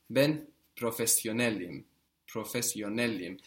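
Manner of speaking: professionelim with the accent on NEL, just before im; teacher's model, NEL accented in professionelim; stress before the ending. Shown as a demonstration. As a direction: lean on "nel" in professionelim, let "im" fall away. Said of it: "putting the accent just before this im".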